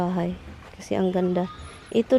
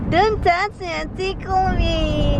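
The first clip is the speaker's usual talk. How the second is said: laughing protest; 5 semitones higher, slower than usual. Real, not acted. Tickled, protesting.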